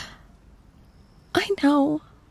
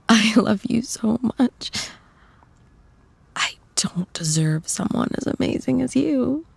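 tender whisper; 5 semitones higher than usual. Acted. Girlfriend whispering love to her partner, tenderly. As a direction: whisper it tenderly, almost breaking.

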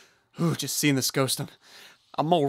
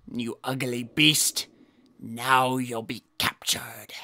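menacing whisper; 4 semitones lower, slower than usual. Acted. Whispering a threat.

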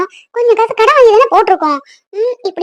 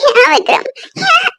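tearful reproach; 5 semitones higher, slower than usual. Acted. Wife reproaching absent husband.

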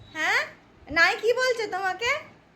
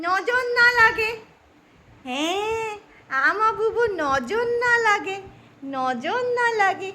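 slow, drawn-out tender blessing; protective murmur; 3 semitones higher, slower than usual. Real, not acted. Grandmother warding off the evil eye, slow tender murmur. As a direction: linger on each word like a charm.

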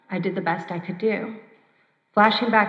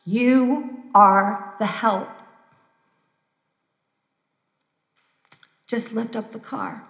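booming voice; slower than usual. Retold or imitated. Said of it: "strong voice boomed through".

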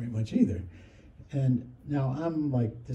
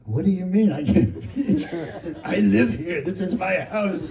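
higher, louder outraged protest; mock indignant outburst; 6 semitones higher, 5 dB louder than usual. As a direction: sputter in disbelief. Preminger told not to be home.

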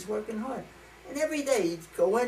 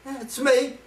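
God voice; 4 semitones higher, 4 dB louder than usual. Acted. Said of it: "a deep voice says".

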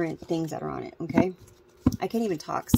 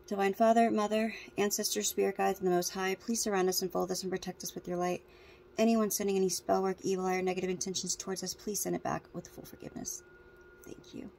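spoken prayer. Acted.

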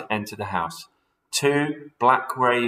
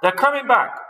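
high, loud panicked alarm with "back" hit hardest; screaming warning; 7 dB louder than usual. Acted. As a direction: shriek the warning.

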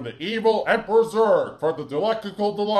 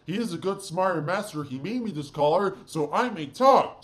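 Doug. Acted. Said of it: "my name is Doug".

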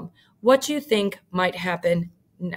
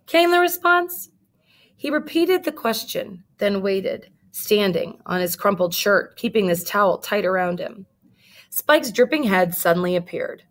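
lively read-aloud storytelling; story narration. A narrator's reading. Teacher reading a picture book to her class, lively.

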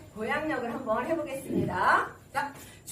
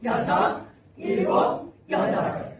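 slightly louder exercise count; counting aloud; 2 semitones lower, 3 dB louder, slower than usual. Shown as a demonstration. Leading seniors to count aloud, somewhat forceful count. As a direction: count out with a bit more force. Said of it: "소리 내면서".

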